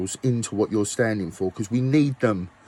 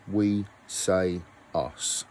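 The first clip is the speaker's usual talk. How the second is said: slow, announcing the album title; 4 semitones lower, 4 dB quieter, much slower than usual. Shown as a demonstration. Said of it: "know what I'm calling our album".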